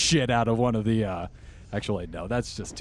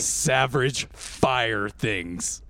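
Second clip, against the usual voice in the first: cruel shouted order; 3 semitones higher, 6 dB louder than usual. Acted. Bell shouting at the fire giants, a cruel overseer's loud order. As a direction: crack the whip with your voice, a cruel overseer. Ruler orders slaves back to work.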